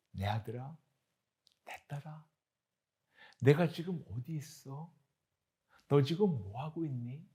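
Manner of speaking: soft, gentle asking; tender father's question. Acted. God asking his child where he is, softly. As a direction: ask softly, like a loving father.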